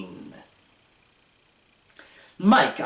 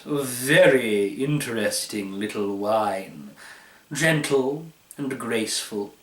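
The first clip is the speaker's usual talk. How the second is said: a hint of a smug connoisseur, unhurried; lightly voiced wine expert. Taster musing aloud to the table, lightly smug. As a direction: savor each word like a fussy epicure. Pratt's voice in the story.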